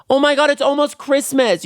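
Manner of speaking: very high-pitched squeal; overjoyed holiday squeal; giddy excitement. Real, not acted. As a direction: burst out in squeaky delight. Sudden excitement about Christmas.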